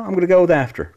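high, loud, mock-grand answer; hammed-up proud reply; emphatic high declaration. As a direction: announce it like a verdict. Answering silly question, emphatic.

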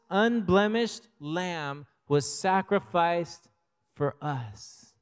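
slow, weighty Bible reading; scripture reading. Acted. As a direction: read it slowly and reverently to the church. Reads scripture aloud.

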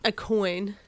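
high, loud wail of disbelief; shocked outcry. A narrator's reading. Kenny wailing as his ice cream shrinks to a coin.

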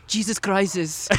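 "Jesus crisis", slowly, for "Jesus Christ"; slow, deadpan "crisis" in place of "Christ"; imitating dad's mispronunciation. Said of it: "My dad also says".

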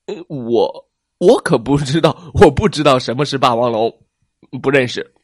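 loud, fast flustered denial; nervous denial. Acted. T-rex hiding who he is from plesiosaur. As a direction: deny it in a panic.

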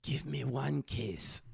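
slow, drawn-out Scottish plea; mock Scottish brogue, starting loud and fading; fake Scottish accent. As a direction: bargain slowly in a hammed-up Scottish accent. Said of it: "this is a fake accent".

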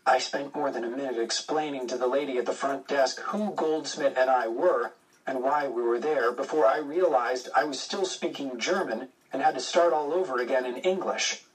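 plain reading voice

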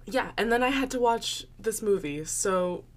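just woke up, groggy; a sleepy just-woke-up voice; morning voice. Real, not acted. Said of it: "my sexy, deep morning voice".

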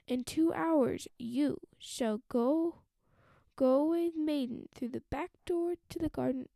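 loud, bossy stepmother; wicked stepmother. Acted. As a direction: order her off sharply. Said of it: "her stepmother said at least".

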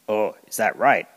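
a little confused. Acted. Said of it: "a little confused".

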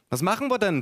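high-pitched innocent aunt. A narrator's reading. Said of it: "fragte meine Tante mit einem Schulterzucken".

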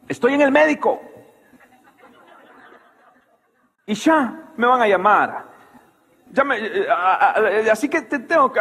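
flustered, stammering, rising to a high pained fake; nervous excuse. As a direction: invent an excuse in a panic, voice climbing. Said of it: "ya está como nerviosa".

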